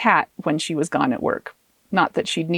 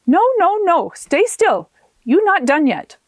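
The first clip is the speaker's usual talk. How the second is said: put-on high, loud Taiwanese-accented urgent no, no; Taiwanese-accented healer; 8 semitones higher, 4 dB louder than usual. Miss Chang holds Arona down, insistent in a Taiwanese accent. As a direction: stop her with a firm Taiwanese accent.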